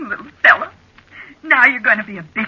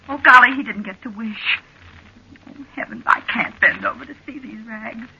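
ordinary delivery

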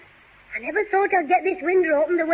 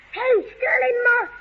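calling out; 5 semitones higher than usual. Acted. Calling from window.

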